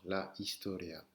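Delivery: softly modelled HISTORIA, no H at all; silent H. Shown as a demonstration. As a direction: say historia as if spelt istoria. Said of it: "le mot sans le H". (H muet, dit doucement)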